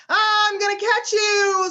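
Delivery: put-on a kid chasing friends in play; playful chase voice. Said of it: "sort of voices".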